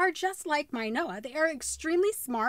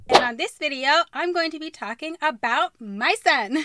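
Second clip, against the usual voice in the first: energetic YouTuber intro; vlog intro; 2 semitones higher, 5 dB louder than usual. Shown as a demonstration. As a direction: hype up the viewers. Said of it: "Try it again".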